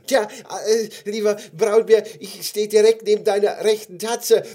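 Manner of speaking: high, loud, timid little voice; little gummy bear. Acted. Gummy bear beside the bear's paw, high calling voice. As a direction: pipe up politely from far below. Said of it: "rief das kleine gelbe Gummibärchen".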